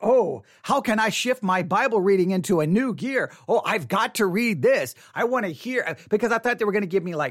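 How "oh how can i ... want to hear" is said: normal talking voice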